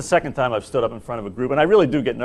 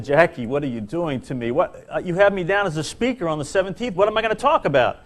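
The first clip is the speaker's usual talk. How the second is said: mock-panicked protest, pitch climbing; flustered complaint, acted out; retold panic; 5 semitones higher than usual. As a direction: plead higher and faster as it builds. Retelling his panicked protest on phone.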